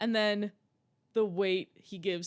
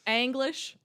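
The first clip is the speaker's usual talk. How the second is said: mock Southern "English"; 4 semitones higher, 3 dB louder than usual.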